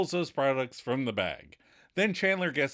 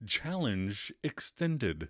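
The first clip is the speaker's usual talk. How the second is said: game show voice; 3 semitones lower, 4 dB quieter, much slower than usual. Retold or imitated. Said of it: "He starts his game show voice".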